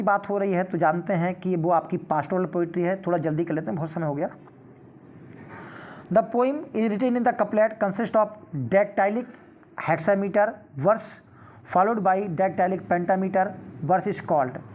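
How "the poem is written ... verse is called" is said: reads the exam question aloud, very slow and deliberate; slow question reading. Acted. Teacher reading a quiz question to students, slow and measured. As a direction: spell out each word of the question for the class.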